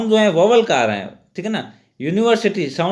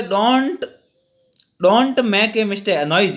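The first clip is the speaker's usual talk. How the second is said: reading slowly; much slower than usual. Shown as a demonstration. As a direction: read "don't make a noise" out very slowly. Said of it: "आप देखोगे". (छात्रों को वाक्य बहुत धीरे-धीरे पढ़कर सुनाना)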